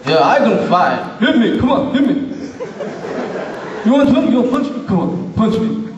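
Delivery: lightly voiced movie boxer impression; Rocky Balboa. Rocky daring the visa interviewer to hit him, cocky boxer voice. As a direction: goad them into a fight, punchy and slurred. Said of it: "haven't you seen Rocky Balboa?".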